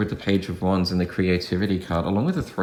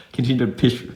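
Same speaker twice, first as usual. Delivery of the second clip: "push" fumbled through a laugh, vowel slipping toward "pish"; laughing at own slip; 3 semitones higher than usual. Real, not acted. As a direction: stumble on "push", amused at yourself. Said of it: "I'm just laughing at myself".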